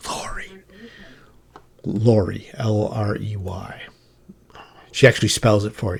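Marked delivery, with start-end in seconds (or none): 0.1-3.8 put-on woman's whisper, much quieter. Retelling what was heard in the ear: imitating a woman's whisper. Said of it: "a woman's voice almost in your ear whisper".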